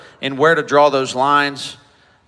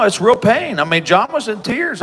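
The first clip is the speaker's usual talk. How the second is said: getting emotional; 5 semitones higher than usual. Real, not acted. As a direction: voice rises with real emotion. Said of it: "sorry, getting emotional".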